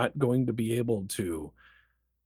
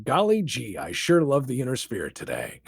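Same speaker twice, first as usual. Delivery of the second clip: put-on wholesome 1950s kid; 2 semitones higher than usual. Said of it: "if somebody is going around going".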